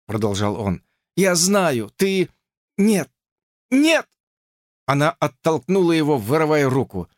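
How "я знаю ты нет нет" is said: rising protest. A narrator's reading. Lucy cutting George off with a rising no. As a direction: break off in alarm.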